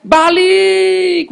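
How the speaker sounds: high, loud command; Jesus shouting the spirit back. Retold or imitated. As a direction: order him back with force. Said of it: "Tuhan Yesus langsung berteriak".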